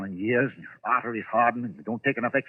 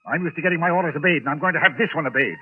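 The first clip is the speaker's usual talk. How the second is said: domineering order; 4 semitones higher than usual. Acted. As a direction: bark orders at the servant. Publisher ordering porter.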